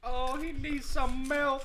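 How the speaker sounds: high, slow teasing voice; mocking baby talk. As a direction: coo it like talking to a baby. Teasing friend about spice.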